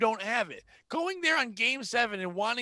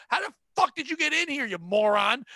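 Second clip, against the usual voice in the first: louder incredulous yell; mock outraged insult; 5 semitones higher, 5 dB louder than usual. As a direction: bark it at the customer in mock outrage. Ranting at customer.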